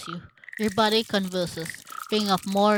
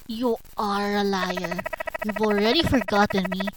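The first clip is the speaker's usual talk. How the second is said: bitter accusation; 5 dB louder than usual. Acted. Betrayed lover calling the other a liar, bitter accusation.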